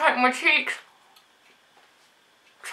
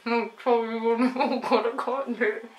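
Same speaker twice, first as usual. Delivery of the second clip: barely intelligible mouthful; mouth full; 3 semitones lower than usual. Real, not acted. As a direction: cheeks crammed full. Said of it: "talking with things in my mouth".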